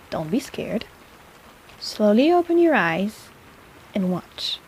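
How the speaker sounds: gentle coaxing. Acted. Healer gently coaxing patient to open their eyes. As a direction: ease them into looking.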